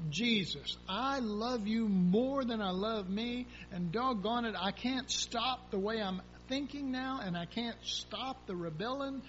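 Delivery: earnest prayer. Pretend. Voiced heartfelt prayer to Jesus.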